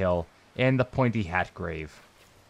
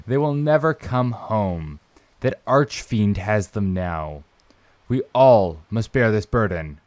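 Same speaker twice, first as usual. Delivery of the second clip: grave, melodramatic declamation; deliberate, hammed-up tragic reading with drawn endings; theatrical letter reading. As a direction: declaim it like a doomed confession. Reads Frida's letter dramatically.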